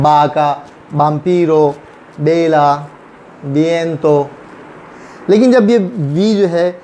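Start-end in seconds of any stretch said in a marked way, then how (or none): 0.0-4.3 बा का, बाम्पीरो, बेला, बिएंतो, each opened with B; initial V as B. Shown as a demonstration. Teacher recapping for learners, बाम्पीरो and बेला starting with B. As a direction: recite बेला and बिएंतो with B sounds. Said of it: "बे की आवाज़ pronounce करते हैं".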